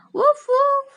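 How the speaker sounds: high whispered little bark; whispered woof. Pretend.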